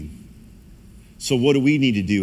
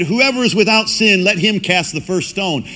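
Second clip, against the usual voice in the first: Jesus proclaiming; 8 semitones higher, 4 dB louder than usual. Acted. Jesus answering the accusers.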